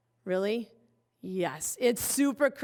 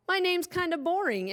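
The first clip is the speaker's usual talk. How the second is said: mock disappointment; 7 semitones higher than usual. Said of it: "mock disappointment about name".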